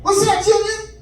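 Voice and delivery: put-on drunk dad voice. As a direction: play the tipsy father. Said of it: "turned into Richard Pryor".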